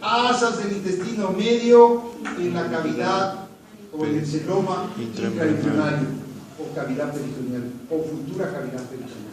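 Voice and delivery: slow, measured answer for the class; slow dictation. Real, not acted. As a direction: dictate it slowly, phrase by phrase. Teacher dictates answer slowly to class. (dictado lento y pausado)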